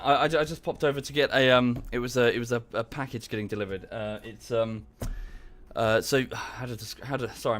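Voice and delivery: breathless after climbing stairs; short panting breaths between words. Real, not acted. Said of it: "I'm out of breath".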